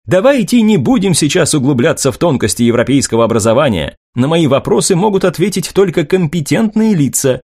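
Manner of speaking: polished reporter voice, a touch lifted; newsreel reporter. Acted. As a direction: read it as a confident TV correspondent. Reporter continues.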